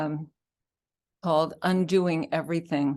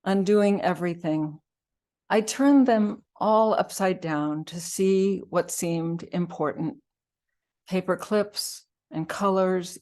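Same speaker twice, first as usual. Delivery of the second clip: phrase-by-phrase poetry recital; poem reading. Acted. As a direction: read the poem aloud with deliberate breaks. Reads second poem aloud.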